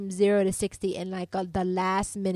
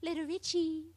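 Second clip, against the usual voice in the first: higher, cooing, teasing; mocking a name as babyish, higher; 8 semitones higher, 4 dB quieter than usual. Shown as a demonstration. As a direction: say it like cooing at a toddler. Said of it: "It's like a baby name".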